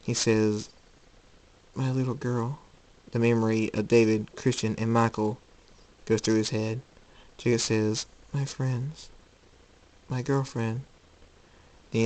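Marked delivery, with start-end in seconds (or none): 1.7-2.6 soft, pained murmur; grieving father. Acted. Jacob remembering his hurt daughter, softly grieving. 8.3-10.8 soft, regretful murmur; pained remembrance. Acted. Jacob remembering the friends he hurt, softly regretful.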